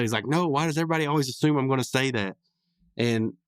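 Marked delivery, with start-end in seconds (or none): 0.3-2.4 slightly higher, quicker retold protest; mock indignation, lightly done; mildly upset. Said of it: "he gets all upset".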